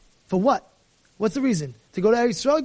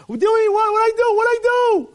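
much higher, loud yelp of disbelief; panicked protest; 9 semitones higher, 4 dB louder than usual. Acted. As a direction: squeal like you've been grabbed. Caught driver protesting in panic.

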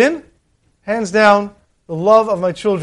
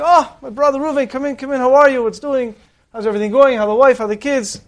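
higher, effusive mock greeting; gushing welcome; 5 semitones higher than usual. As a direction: lay the warm welcome on thick. Rich brother greets poor brother.

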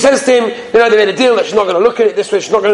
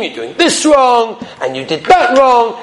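higher, slower nagging list; mock criticizing; 6 semitones higher, slower than usual. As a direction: imitate a fault-finding wife. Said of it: "She was always criticizing him".

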